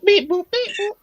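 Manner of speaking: high robotic beeping. Pretend. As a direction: chirp it like a droid. Robot noises mocking voice.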